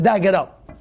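lightly curt command; a hint of blunt disrespect; brusque Esav manner. Esav telling his father to get up, lightly brusque. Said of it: "the way Esav said".

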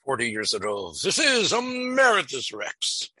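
talking through a mouthful of chocolate; chocolate in the mouth, words round it; mouth full of chocolate. Real, not acted. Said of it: "I have chocolate in my mouth".

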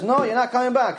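high, firm no from the heavenly judge; stern refusal. Retold or imitated. Heavenly judge refusing the pleading woman, firm and high. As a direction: flatly deny her return.

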